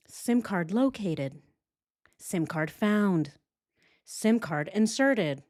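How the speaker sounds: slow, measured status updates; mock status announcement. Host mimics her step-by-step updates, mock announcing. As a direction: announce each step slowly and deliberately.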